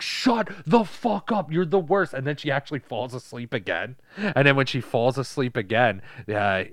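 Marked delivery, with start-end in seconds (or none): 0.0-2.1 high, loud, stretched-out yell; hammed-up exasperated screech; mock teen outburst. Daughter yelling back at nagging mom, mock fury.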